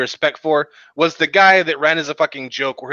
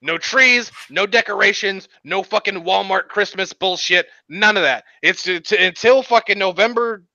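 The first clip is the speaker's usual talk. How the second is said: ranting; 3 semitones higher than usual. Pretend. Mock campaign rant.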